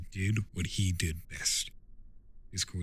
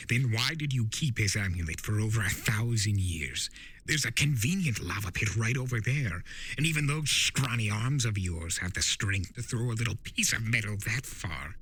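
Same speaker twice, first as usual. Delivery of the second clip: lightly voiced trickster, a bit higher and playful; Discord, sly spirit of chaos; 3 semitones higher than usual. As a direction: tease him like a know-it-all chaos spirit. Discord taunts Turek.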